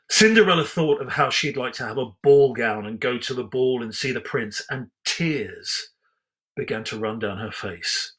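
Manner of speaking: storybook reading voice, measured and even; story narration. A narrator's reading. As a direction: read it like a bedtime storybook.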